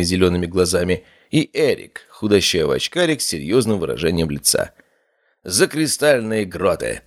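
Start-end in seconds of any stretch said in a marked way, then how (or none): 5.4-7.0 exclaiming toast. Acted. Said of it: "воскликнул Норрис".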